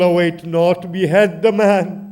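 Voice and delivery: loud commanding cry; loud call. Acted. Enemy soldier calling to behead Hussein, loud order.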